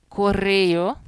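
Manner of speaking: "Correio" split as co-RRE-o; loud, careful "Correio" with separated end vowels; vowels in hiatus. Shown as a demonstration. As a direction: give the final e and o of "Correio" a syllable each. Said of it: "separo as vocales".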